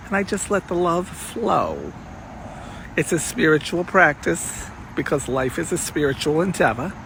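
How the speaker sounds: lightly voiced old-school Miami Beach diva; a hint of a breathy vintage showbiz purr; Goldie Goldstein voice. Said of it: "I wanna show one of your alter egos".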